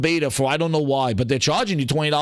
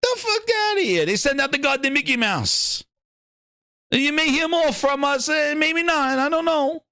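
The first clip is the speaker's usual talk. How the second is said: Herman Holtz impression; 9 semitones higher than usual. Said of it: "Oh, man".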